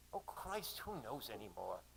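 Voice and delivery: weary Australian exclamation, dropping away; resigned Aussie woman's voice; Aussie accent. Acted. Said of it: "she said in an Aussie accent".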